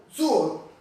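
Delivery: suo with the accent on its U; suo, weight on the U, O left light; stress on the U. Shown as a demonstration. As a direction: demonstrate suo, leaning on the U. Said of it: "acento en la U".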